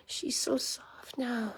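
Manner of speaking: slow, soft whisper. Real, not acted. To the mother dog after her bath, a slow whisper. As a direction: hush it slowly over the sleeping dog.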